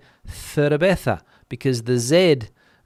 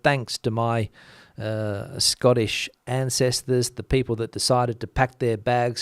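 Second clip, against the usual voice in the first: deadpan. Shown as a demonstration. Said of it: "the deadpan thanks you gave".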